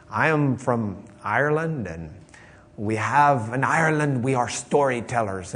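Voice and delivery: lightly attempted Irish accent. Preacher quoting an Irish performer at an auction, attempted Irish accent. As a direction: imitate an Irish storyteller, not very convincingly. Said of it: "he gets up there with his Irish accent".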